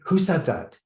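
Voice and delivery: high, loud startled cry. A narrator's reading. Journalist hearing the dog speak, startled and loud. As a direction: jump at the unseen voice. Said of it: "looking around wildly".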